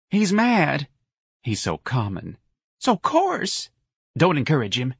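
high, sniffy gossip; disdainful lady. A narrator's reading. A lady warns the others about Ignatius, sniffy. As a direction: dismiss him with disdain.

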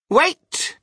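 sudden high, loud cry. A narrator's reading. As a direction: call out sharply to stop everyone. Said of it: "cried Mister Wonka".

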